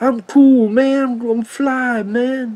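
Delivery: very slow, high, drawling hippie-style voice. Imitating how a movie's buddy character talks: imitating a hippie-like voice. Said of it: "trying to talk like a hippie".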